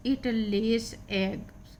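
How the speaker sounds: very slow, stretched reading; slow model sentence; slow reading aloud. Shown as a demonstration. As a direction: draw each word out for learners. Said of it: "teacher reads slowly".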